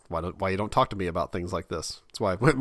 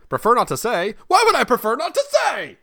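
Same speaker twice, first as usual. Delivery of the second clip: mock indignant; 12 semitones higher, 7 dB louder than usual. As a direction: pitch jumping up in disbelief. Mock outrage at form options.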